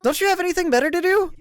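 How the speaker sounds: loud, hurt accusation; upset shouting. Acted. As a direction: yell at him, stung. Mary shouting during quarrel.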